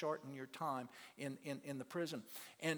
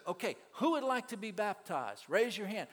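loud, raised call for hands; baptism call; 5 semitones higher, 6 dB louder than usual. Retold or imitated. Preacher asking inmates to be baptized, loud and high.

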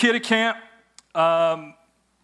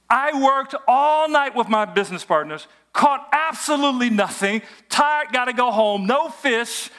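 exasperated protest; 4 semitones higher than usual. Acted. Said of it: "What's he saying?".

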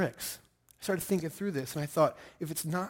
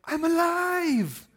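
long, high, loud drawn-out cry; shouted; 8 dB louder, much slower than usual. Retold or imitated. Pastor retelling the moment, shouting it out loud. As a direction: stretch it out like a triumphant shout. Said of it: "every fiber in my body shouted".

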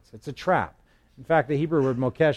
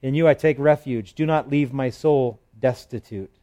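scripture reading; 3 dB louder than usual. Acted. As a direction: read it like a prayer to God. Psalm read aloud as prayer.

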